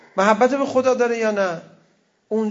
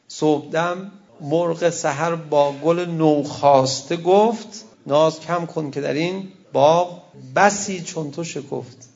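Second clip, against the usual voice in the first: slow, measured recital of verse; poem recitation; slower than usual. Acted. Preacher reciting Hafez to the congregation, slow and measured. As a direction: savour each line of the poem slowly.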